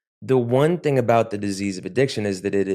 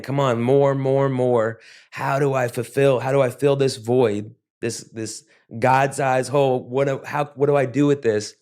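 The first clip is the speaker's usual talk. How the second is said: raised, mildly urgent pleading; grasping inner voice; 4 semitones higher than usual. Acted. Addict on empty asking himself for more, mildly desperate. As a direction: act out hungry searching, question tumbling on question. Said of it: "I'm reaching for anything".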